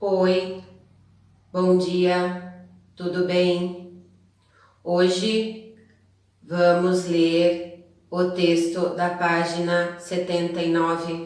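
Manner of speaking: low, slow, one-tone little-robot monotone. Showing how someone reads a text aloud, flat robotic reading. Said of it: "vai ler tudo de um jeito só, parecendo um robozinho".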